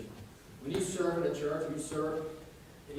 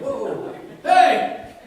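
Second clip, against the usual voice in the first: mimicked heckle; 14 dB louder than usual. Mimicking yelling at musicians.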